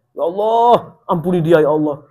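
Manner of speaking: imitating a husband shouting his prayer; mock shouted prayer. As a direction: yell the prayer so she has to hear it. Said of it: "Mau didengar tapi teriak, keras banget suaranya".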